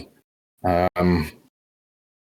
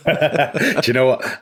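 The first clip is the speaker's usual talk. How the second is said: laughing through the words, higher and slow; 6 semitones higher, much slower than usual. Real, not acted. Co-caster laughing at the shared thought, giggling. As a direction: giggle out the question.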